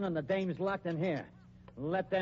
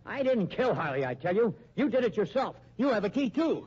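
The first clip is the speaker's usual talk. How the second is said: rising, louder protest of innocence; cornered man yelling he's innocent; desperate angry denial; 4 semitones higher, 4 dB louder than usual. Acted. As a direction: shout him down, pleading and furious. Accused man denies murder desperately.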